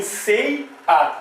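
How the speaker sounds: "sei a" split into two syllables, pause between. Shown as a demonstration. Teacher showing students how the word separates, syllable by syllable. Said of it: "primeiro eu vou separar".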